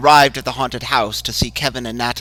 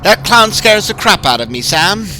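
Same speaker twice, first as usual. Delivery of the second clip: fearful outburst; 10 semitones higher, 9 dB louder than usual. Acted. Bill's fear bursting out.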